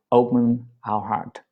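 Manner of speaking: ordinary talk, nothing marked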